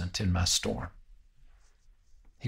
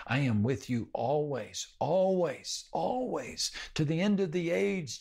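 rising promise; 6 semitones higher than usual. Retold or imitated. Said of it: "Jesus promised".

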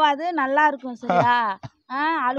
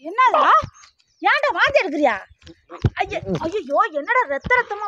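panicked alarm; 4 semitones higher than usual. Acted. Sister sees brother vomit.

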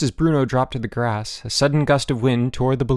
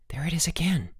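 unvoiced-sounding hushed whisper with no tone; 6 semitones higher, 4 dB quieter than usual. A narrator's reading. Boots to Bruno on hearing the sound again, whispered. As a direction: whisper it urgently. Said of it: "Boots whispered".

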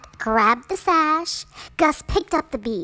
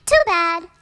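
mock pity; 6 semitones higher, 6 dB louder than usual. A narrator's reading. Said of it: "said the stepsisters".

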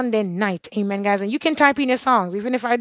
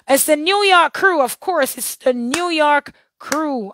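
raised, emphatic exclamation; excited call-out; 5 semitones higher, slower than usual. Real, not acted. Host suddenly remembers the New York crew, excited call-out. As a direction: call it out high, stretching the final words.

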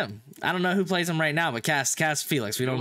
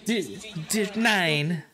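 playful mimicry, higher than usual talk; imitating higher voice; 2 semitones higher than usual. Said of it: "a way higher voice".

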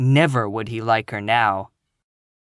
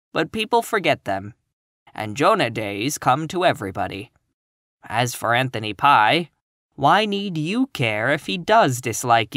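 gentle. Acted. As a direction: console her tenderly. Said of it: "very gently for her".

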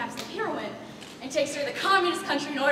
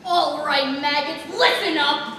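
mock drill sergeant bark, louder; 6 dB louder than usual. Stage manager playing drill sergeant to the cast. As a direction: play the army drill instructor. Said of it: "It's like the army".

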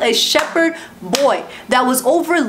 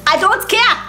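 God's blunt reply; 7 semitones higher than usual. Pretend. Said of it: "God is like".

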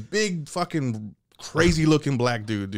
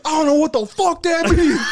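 laughing inmate; 6 dB louder than usual. Retold or imitated. Prisoner confused.

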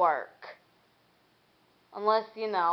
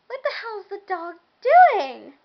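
higher, louder startled outcry; 10 semitones higher, 10 dB louder than usual. Retold or imitated. Vlogger waking to a black shape, startled. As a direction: blurt it out in surprise. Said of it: "I'm like".

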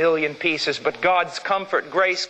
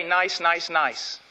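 mock soft; much slower than usual. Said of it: "Notice it doesn't say".

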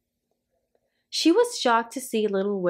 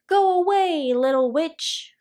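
high, louder attack on the first words; storybook shriek; 7 semitones higher, 4 dB louder than usual. A narrator's reading. Aunt Grouchy sending Little Witch away, shrieked. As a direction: shoo her off with a mock shriek. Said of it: "shrieked Aunt Grouchy".

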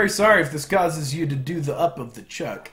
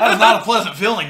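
laughing through pain; 4 semitones higher, 6 dB louder, faster than usual. Real, not acted. Laughing after gross drink.

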